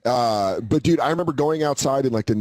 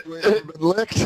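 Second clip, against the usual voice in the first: put-on tough kid voice; 4 semitones higher, slower than usual. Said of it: "he goes".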